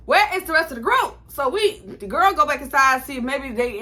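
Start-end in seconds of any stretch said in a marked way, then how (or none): 0.1-1.2 panicked. Retold or imitated. Panicking when the group is gone.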